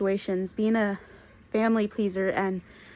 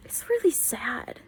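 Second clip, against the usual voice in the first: whisper; 3 semitones higher, 3 dB quieter, slower than usual. Real, not acted. Sad aside about the girls.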